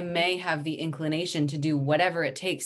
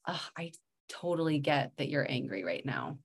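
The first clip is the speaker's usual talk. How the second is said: softer, gentle acknowledgement of anger; calm, soft reassurance; 6 dB quieter than usual. Shown as a demonstration. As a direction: soothe an angry toddler, quietly. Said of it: "I could say to her".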